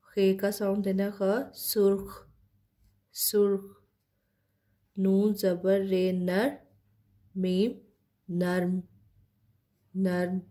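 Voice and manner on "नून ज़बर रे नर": slow spelling of नून ज़बर रे नर; spelling out letters. Shown as a demonstration. Teacher spells नून ज़बर रे नर for students, slowly. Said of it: "किस तरह से प्रोनाउंस करते हैं".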